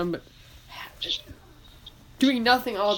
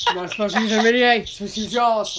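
loud, fast mock scolding; retold yelling; 6 dB louder, faster than usual. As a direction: imitate a teacher's quick telling-off. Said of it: "He yelled at me".

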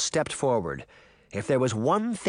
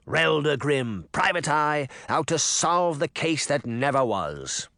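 mock announcer; 3 semitones higher than usual. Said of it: "the mayor said".

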